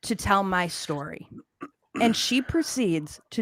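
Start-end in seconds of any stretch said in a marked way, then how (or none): 0.0-1.3 mock proclamation. Retells her grand announcement.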